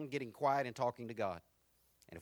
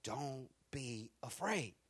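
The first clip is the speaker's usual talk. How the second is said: gentle reassurance; 4 semitones lower, 9 dB quieter, much slower than usual. Acted. Soft reassurance after preaching.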